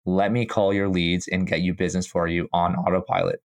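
sick, slightly stuffy voice; stuffy nose. Real, not acted. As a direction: talk through a cold, a bit congested. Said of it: "Sorry, I'm sick today".

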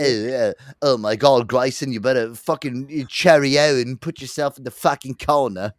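failed Texan impression turned British; badly faked, wandering celebrity accent; Caps. Host replaying the impression that slipped, put-on British voice. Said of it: "You just turned into Caps".

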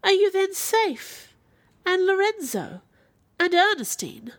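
high, drawn-out urgent questions; pitched far up, acted pleading concern; anxious cry. A narrator's reading. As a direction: cry out, eager for reassurance. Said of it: "stretched out my hand to her and cried".

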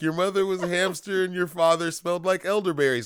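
high, loud, fast French taunt; mock French taunt. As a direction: fire off the insult in a French accent.

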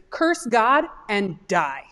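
slow, each word laid down heavily; slow deliberate quote. Shown as a demonstration. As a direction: quote it slowly so it sinks in. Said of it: "I'm not paraphrasing that".

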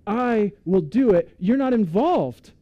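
slow, high, loud divine declaration; God speaking. Acted. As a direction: proclaim it as God, slowly. God's voice quoted in sermon.

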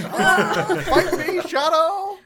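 high, loud defiant yell; battle cry. Acted. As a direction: scream a challenge at the shadow. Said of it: "The kid rips his robes off and just goes".

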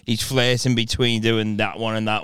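wavering Scottish accent; lightly put-on Scottish accent. Shown as a demonstration. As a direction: drift between two Scottish accents. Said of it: "if a real Scottish person heard me".

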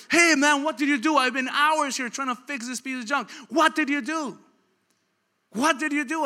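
high-pitched, astonished questioning; impressed amazement. Acted. Impressed driver to old man who fixed car, amazed. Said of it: "The guy is so impressed".

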